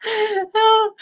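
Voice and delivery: words breaking into real laughter; can't hold back the giggles as you say it; laughing through the line. Real, not acted. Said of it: "I can't stop laughing".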